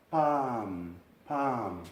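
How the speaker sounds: 'palm' said 'pam', no L; silent L. Shown as a demonstration. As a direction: drop the L in 'palm'. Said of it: "la L desaparece".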